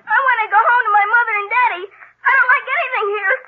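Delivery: tearful pleading; a child whimpering for his parents; frightened boy crying for his mom and dad. Acted.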